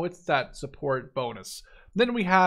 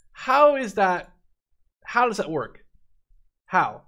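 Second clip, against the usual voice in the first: incredulous question; 4 semitones higher, 6 dB louder than usual. Real, not acted. Incredulous at unit cost.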